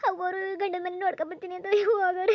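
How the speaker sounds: crying out her fear. Acted. Telling her lover of the match, breaking into tears. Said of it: "ಅಳ್ಬೇಡ ಸುಮ್ನಿರು ನೀನು".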